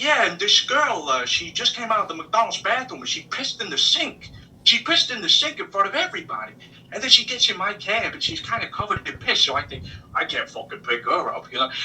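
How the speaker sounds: put-on New York accent. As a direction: Brooklyn driver telling a crude story. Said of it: "your New York voice is great".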